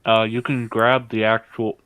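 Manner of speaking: talking with a mouthful of sandwich; words pushed around a bite of food; mouth full. Real, not acted. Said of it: "sorry, my mouth is full suddenly".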